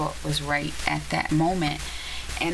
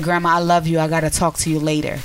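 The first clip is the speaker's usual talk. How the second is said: firm loud interruption; 7 dB louder, faster than usual. Retold or imitated. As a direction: cut her off loudly with love. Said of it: "going in so bad on the phone".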